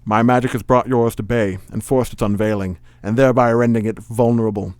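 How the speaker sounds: put-on villain committing to a Connery-style accent; Sean Connery accent. Magician turning the duel around, in a Sean Connery-like accent. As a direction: go all in on the hammy Connery-like accent. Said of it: "I'm going for it".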